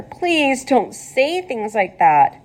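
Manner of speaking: slow, pained plea; pleading. Acted. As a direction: beg him to stop, slowly. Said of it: "groaned Wilbur".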